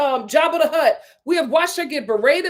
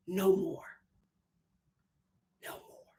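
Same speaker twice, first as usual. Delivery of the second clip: softer, fading away; fading repeat; 4 semitones higher, 16 dB quieter than usual. Real, not acted. Closing her rant on Brittany, fading to nothing. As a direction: let it die out to nothing.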